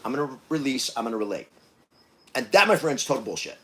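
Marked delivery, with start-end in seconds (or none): 0.0-1.5 mock calm self-talk. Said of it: "but we're like".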